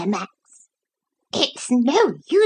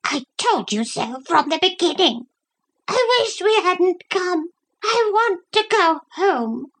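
high, whining voice; 13 semitones higher than usual. A narrator's reading. Brenda the dog complaining in the cabin, high whine. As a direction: whine like a fretful little dog. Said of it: "she kept saying in a whining voice".

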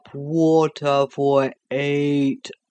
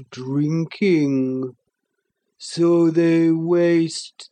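sleepy creature voice; slower than usual. Acted. The Sloth's voice.

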